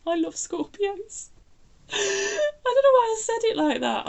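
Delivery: high, giggly apology; laughing. Real, not acted. Reader giggling after insulting Scorpios, laughing. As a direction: laugh it off sheepishly.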